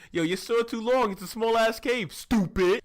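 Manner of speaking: high, loud mock outrage; exasperated scolding. Viewer scolding fighter swinging in a small cave, exasperated. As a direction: berate him, hammering each phrase.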